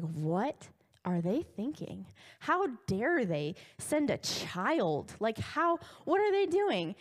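stretched-out mock anger, climbing at the end; mock outrage. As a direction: act out an offended giant's rant, drawn out then rising. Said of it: "he gets so mad".

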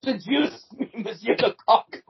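hammed-up French accent, inviting seduction; Melanie. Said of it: "Should I be Melanie?".

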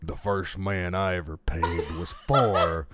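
lightly put-on burly reader, slow. Co-host reads an article aloud to a laughing friend, mock burly voice. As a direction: read it slowly in a mock burly voice. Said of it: "gonna read it in a burly voice".

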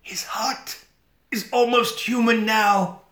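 unvoiced, high whisper slowing down; hammed-up dying whisper. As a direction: breathe out a last secret. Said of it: "And he says".

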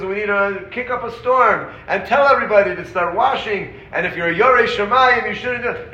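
mock outrage. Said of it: "And he says".

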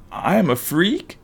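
put-on high, plaintive voice of a hurt child; upset kid's question. A narrator's reading. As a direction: ask it small and high, in disbelief. Sobbing friend asks, hurt.

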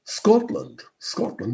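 low, grave go at a Scottish accent; attempted Scottish accent. Shown as a demonstration. Commentator trying to get the gravity of the Scots, Scottish accent. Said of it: "I can't do a Scot, but I can get the gravity".

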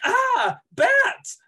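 squealed high, loud cry of bats; hammed-up panic yelp; mock scream. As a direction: shriek it in mock terror. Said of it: "the criminal is like".

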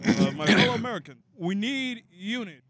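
Nixon impression. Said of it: "I can probably Richard Nixon".

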